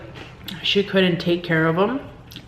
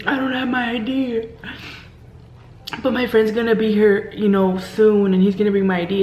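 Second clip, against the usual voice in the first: movie-drama plea; 3 semitones higher than usual. Retold or imitated. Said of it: "like if she was in a movie".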